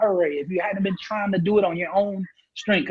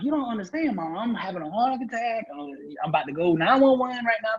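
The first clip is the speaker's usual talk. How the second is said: panicked pleading; 5 semitones higher than usual. Retold or imitated. Panicking son pleading with mom.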